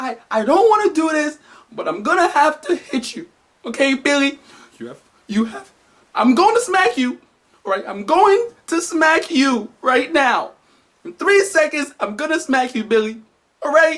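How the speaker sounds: acted, high, tearful crying voice. Retelling a friend's mother warning her son before a smack: imitating a mother crying. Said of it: "She started crying like".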